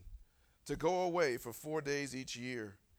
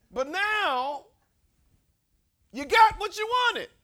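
high, loud challenge to the congregation; booming sermon, drawn-out key phrases; full-force preaching; 13 semitones higher, 15 dB louder, slower than usual. Real, not acted. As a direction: press the congregation hard from the pulpit.

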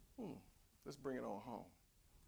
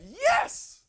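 high, loud cheering yes; joyful shout; 15 dB louder than usual. Retold or imitated. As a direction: cheer it like a thrilled crowd. Imagined crowd cheering the preacher.

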